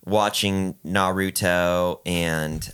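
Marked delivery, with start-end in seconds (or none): 0.8-2.0 "Naruto" with a long, drawn-out U; elongated U. Real, not acted. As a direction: stretch the U in "Naruto" slowly. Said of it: "he elongates the U".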